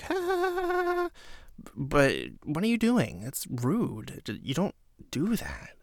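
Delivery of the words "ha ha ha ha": high, thin mock laughter; a hint of awkward forced laughter; forced fake laugh. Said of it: "everyone's like".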